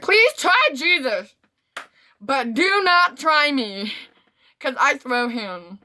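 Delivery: high-pitched sassy warning, slowing at the end; mock warning. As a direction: warn them off, drawing out the last words. Mock warning to anyone testing her.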